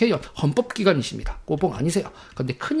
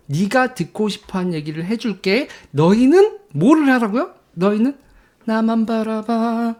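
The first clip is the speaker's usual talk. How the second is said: a hint of a smug crooner; lightly voiced Moon, coaxing; mock Moon voice; 4 semitones higher than usual. Mocking Moon to his supporters, lightly voiced. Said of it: "그게 문재인이라니까".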